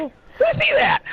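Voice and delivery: high-pitched mock awe. Friend reacting to the taser demonstration, high drawn-out mock awe. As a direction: stretch it out high, acting impressed.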